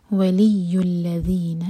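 الذین with a true dh, tongue tip out; clear dhal. Shown as a demonstration. Teacher recites ولی الذین slowly for students. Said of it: "ذال کو ذال پڑھیں".

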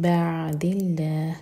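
slow, with the nun of من turned to a held m before بعد; iqlab. Shown as a demonstration. Teacher modelling iqlab for students, slow. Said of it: "میم کو hold کریں گے".

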